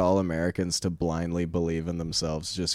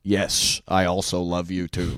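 American accent in a poor impression; more American accent; slower than usual. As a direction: do a mild, hammy American accent, like Nixon. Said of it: "you just do a more American accent".

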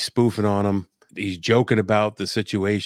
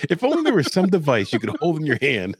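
sarcastic; 7 semitones higher than usual. Acted. Sarcastic joke about phones.

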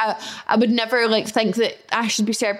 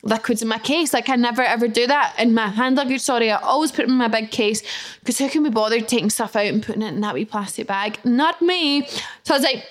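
ordinary delivery

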